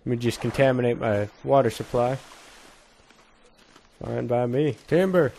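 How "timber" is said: mock lumberjack yell. Felling a tree, calling out.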